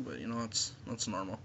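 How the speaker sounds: lips closed around mouthpiece; muffled speech around device; talking with vape in mouth. Real, not acted. Seen 0: vape mouthpiece held between lips throughout the labelled words.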